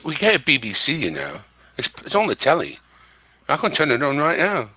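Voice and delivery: casual put-on British accent; phony British accent. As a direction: chat in an amateur British accent. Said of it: "I'm gonna try to put on a British accent".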